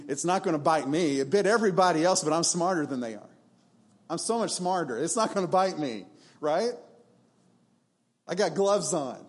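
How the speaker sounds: naive, cocky self-talk; a lightly hammed-up smug boast; mock overconfidence. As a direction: play the fool sure he won't get hurt. Mock naive person's thoughts.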